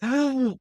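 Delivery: a sharp breath punched out of the lungs, pitched high; imitated gasp. Retelling how the kicked opponent lost his breath, a sharp imitated gasp. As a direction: mimic the wind knocked out of him. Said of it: "where he went".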